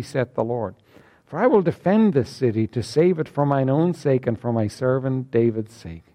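measured King James reading; solemn scripture reading to the congregation. Acted. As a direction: read the verses out with weight. Reads scripture aloud.

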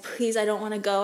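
a quick, pleading retelling of begging not to go; retold tearful plea. To the nurse as transport arrives, mild tearful plea. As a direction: plead to stay, a touch tearful. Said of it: "I was crying".

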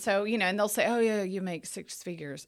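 numb mouth after dental work; talking through a numb, swollen mouth; numb from the dentist. Real, not acted. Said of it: "I'm s-, I'm trying to talk".

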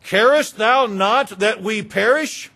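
loud, high, indignant pleading; scolding. Acted. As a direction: chide him loudly in desperate reproach. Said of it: "to scold him a little bit".

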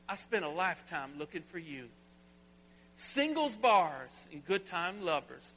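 a light, half-sung country twang. Shown as a demonstration. Pastor quoting a country song to the church, light country twang. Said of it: "go into a country twang".

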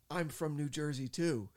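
high, loud fan's outburst; reenacted starstruck exclamation; starstruck blurt. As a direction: blurt it out to your idol. Blurts it to his idol.

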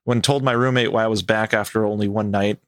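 measured first-person storytelling; story narration. A narrator's reading. Host reading a camper's story to co-host, measured narration. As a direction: read it like a campfire tale. Reads a camping story aloud.

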